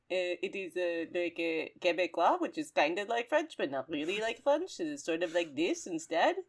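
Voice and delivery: soft, exaggerated Quebecois French accent; hushed parody of Quebecois French; mock Quebecois accent. Shown as a demonstration. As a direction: put on a joking Quebecois accent. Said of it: "Quebecois French accent".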